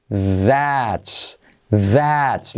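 "that's" alone, opening on a voiced TH. Shown as a demonstration. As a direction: model "that's" with a careful voiced TH. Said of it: "la semiclave T H". ("that's" con la TH sonora, palabra aislada)

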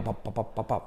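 rhythmic "pap" beat sounds; imitated beat. Shown as a demonstration. Teacher setting the rhythm, beatboxed pap-pap. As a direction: tap out a quick soft beat by mouth. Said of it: "se te queda así todo el día".

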